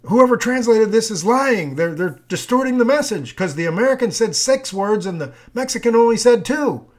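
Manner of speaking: a hint of an indignant doubter; mock accuser. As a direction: play the suspicious skeptic crying foul. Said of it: "So somebody could say".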